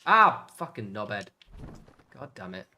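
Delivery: loud, real frustrated outburst; frustrated curse. Real, not acted. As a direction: snap at the stubborn door. Furniture assembly going wrong.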